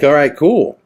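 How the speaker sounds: loud, high, pumped-up "all right, cool"; excited. Retold or imitated. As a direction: sell it like you can't wait for the adventure. Hyped to cross into Mexico.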